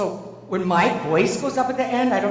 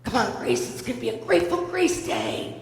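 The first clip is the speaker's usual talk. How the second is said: high singsong dad wake-up call; mimicked morning pep; cheery; 4 semitones higher than usual. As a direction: chirp it like a relentlessly upbeat dad. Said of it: "just cheery as all get out".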